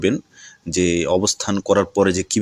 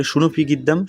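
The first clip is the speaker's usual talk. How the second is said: শুনো ফি গিদ্দাম asked with a high rising push on the end; শুনো ফি গিদ্দাম as a pushed rising question; 6 semitones higher, 3 dB louder than usual. Shown as a demonstration. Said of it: "কথার শেষে একটু ধাক্কা দিয়ে বলবেন".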